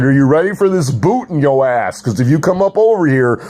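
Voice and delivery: mock tough-guy taunt; hammed-up boot threat. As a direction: lean in and taunt them. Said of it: "I said".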